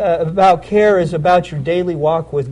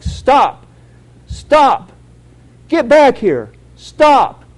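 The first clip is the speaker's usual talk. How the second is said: sharp high yells of a guard; retold staff yell; 7 semitones higher, 6 dB louder, much slower than usual. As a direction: shout him back into line. Staff yelling at running inmate.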